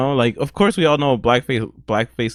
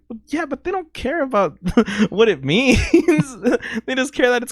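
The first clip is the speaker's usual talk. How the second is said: laughing; 12 semitones higher than usual. Retold or imitated. Mocking retort, high laughing.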